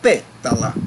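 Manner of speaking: pétala with a loud-hit "pé", rest dropping away; stress on first syllable. Shown as a demonstration. Teacher confirms the strong syllable, punched "pé" in pétala. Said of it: "a sílaba mais forte".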